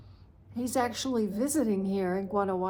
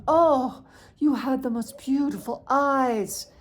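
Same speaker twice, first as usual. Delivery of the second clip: put-on light Mexican accent; 3 semitones higher, 7 dB louder than usual. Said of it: "very heavy Mexican accent".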